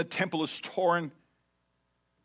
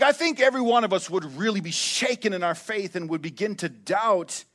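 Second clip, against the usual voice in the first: usual speaking voice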